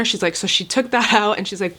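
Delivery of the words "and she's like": ordinary talk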